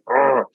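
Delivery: mock groan of envy; short grudging "ugh"; jealous groan. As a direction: groan it out, half in jest. Reacting to friend's book, jealous.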